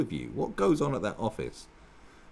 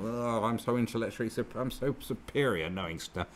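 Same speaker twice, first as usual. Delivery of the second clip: snooty mockery. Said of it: "go on and on".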